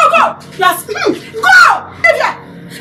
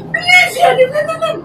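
yelling him away. Acted. Woman yells him away.

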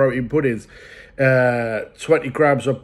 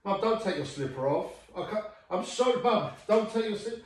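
whiny pleading; 6 semitones higher, 9 dB quieter than usual. Real, not acted. Pleading with mum, away from mic.

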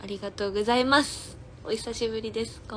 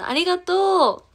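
excited thanks; 9 semitones higher, 8 dB louder than usual. Real, not acted. Thanks fan for coming.

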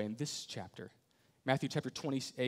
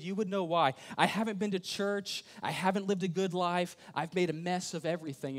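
higher and louder, a desperate plea; pleading confession; 5 semitones higher, 6 dB louder than usual. Pretend. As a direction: cry it out as if unworthy. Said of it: "you say it this way".

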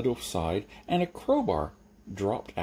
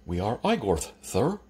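lisping servant. Acted. Lisping servant explains himself.

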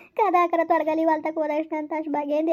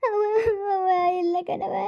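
sobbing. Acted. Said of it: "ಯಾಕ್ ಹಿಂಗ್ ಅಳ್ತಾ ಇದ್ದಿ?".

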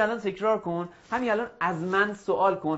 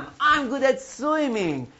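very slow, higher classroom model; slow drill model; 5 semitones higher, much slower than usual. Shown as a demonstration. Teacher gives English after the Persian, slow drill. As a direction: draw it out so pupils can repeat.

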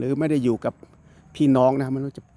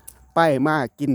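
slow, clipped Surin Isan words, a bit higher; curt Surin Isan dialect; 3 semitones higher, much slower than usual. Shown as a demonstration. Vlogger showing viewers how Surin Isan folk talk, curt and slow. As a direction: say it the blunt Surin Isan way, word by word. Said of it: "ก็จะพูดห้วนๆ".

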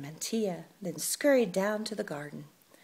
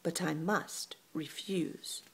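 icy refusal; 4 dB quieter, slower than usual. Acted. Cold rejection continues.

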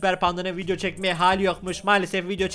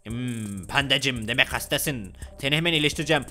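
doctor, soothing; 6 semitones lower than usual. Pretend. Doctor to little panda patient, promising a cure, reassuring. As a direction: play a deeper-voiced doctor greeting a patient.

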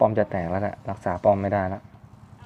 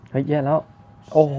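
a sudden high "oh no" as things go wrong; startled cry of alarm at the screen; 5 semitones higher, 5 dB louder than usual. Real, not acted. Gamer spotting a threat in the match, startled.

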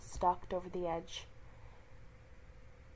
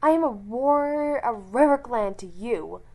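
loud, proud, higher declaration; loud indignant warrior claim; angry growl; 4 semitones higher, 12 dB louder than usual. A narrator's reading. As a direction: snap it back in offended pride. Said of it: "she growled at him".

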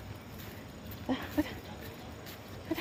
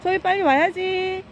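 slow, high, drawn-out coaxing call; 7 semitones higher than usual. Real, not acted. Owner coaxing her dog to cross, slow high call. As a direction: lure the dog over from afar.

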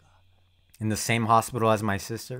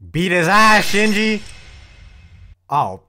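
yelled encouragement, pitch up high; loud cheer; 7 semitones higher, 7 dB louder, slower than usual. Real, not acted. Viewer yelling at Shinji on screen, loud cheer. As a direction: cheer him on at full volume.

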